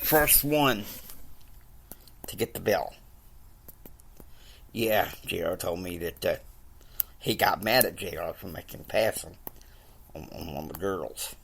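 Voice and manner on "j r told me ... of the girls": hushed gossip whisper. Real, not acted. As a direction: whisper it like a secret. Gossip about JR's pass.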